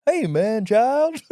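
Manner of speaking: high, jolly cartoon bear voice; the jungle-song bear. Co-host showing his Jungle Book bear, playful cartoon voice. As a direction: play a friendly jungle bear. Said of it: "the jungle-song bear".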